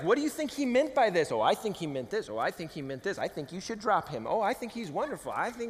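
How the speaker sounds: lightly mocked girls' back-and-forth; caricatured girls chattering. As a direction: rattle off opinions like imagined girls conferring. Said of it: "That's how girls sound in my head".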